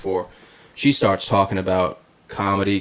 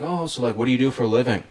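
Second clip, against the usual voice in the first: lightly voiced, higher-pitched small talk; retold hairdresser; 4 semitones higher, faster than usual. Hairdresser making small talk with her client, lightly imitated. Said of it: "and she's like".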